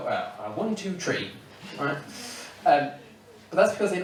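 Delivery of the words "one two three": "one, two, three" with three said "tree", no th sound; Irish way of saying "three" as "tree". Shown as a demonstration. Counting for an English audience in Irish "tree". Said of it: "'cause we go".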